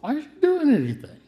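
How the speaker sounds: a lament hurled at heaven; anguished cry to God. Retold or imitated. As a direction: cry out from below for help.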